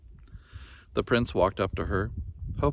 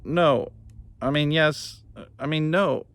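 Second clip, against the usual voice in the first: flustered prince; 3 semitones higher than usual. Acted. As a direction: trip over the words nervously.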